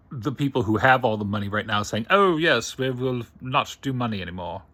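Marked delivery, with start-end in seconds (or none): 2.1-4.6 mock posh British accent, pitched higher and louder at the start. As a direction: put on a playful British accent as a rich elite. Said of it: "sorry for the British accent".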